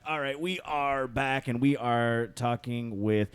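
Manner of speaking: smooth on-air announcer read; radio voice. Acted. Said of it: "That was his radio voice".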